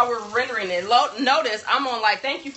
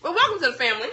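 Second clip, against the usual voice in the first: mouth full; 4 semitones higher, faster than usual. Real, not acted. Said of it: "I'm sorry I'm eating".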